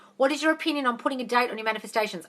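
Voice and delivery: normal talking voice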